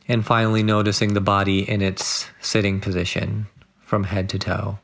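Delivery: unhurried meditation guide, long pauses between phrases; guided meditation. Acted. Guide settling listeners into body and breath, measured meditation voice. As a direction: guide them gently into stillness, phrase by phrase.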